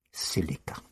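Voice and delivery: soft, whispered mutter; the Doctor ponders aloud, muttering. A narrator's reading. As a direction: murmur it to himself. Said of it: "he muttered".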